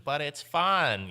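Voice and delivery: high, loud, drawn-out Squidward voice; hammed-up cartoon impression. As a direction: stretch it out slowly and pitch it up, Squidward-style. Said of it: "The Squidward".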